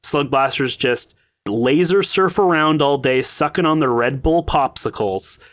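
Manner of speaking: sarcastic. Acted. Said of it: "like, sarcastic tone where I'm like".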